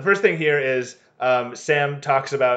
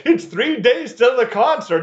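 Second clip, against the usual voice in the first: high, frantic mock fangirl; imitated fan screaming; 10 semitones higher, 4 dB louder than usual. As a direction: squeal it like an overexcited fan. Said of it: "they're screaming at the door".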